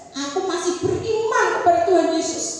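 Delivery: loud, clear, firm declaration. Retold or imitated. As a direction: say it out plainly and firmly.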